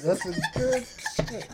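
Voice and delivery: slow laughing repeat. Real, not acted. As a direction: say it again through a chuckle.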